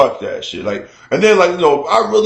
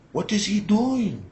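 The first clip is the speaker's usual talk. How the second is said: imitating amazed neighbor; 4 semitones higher, 9 dB quieter, slower than usual.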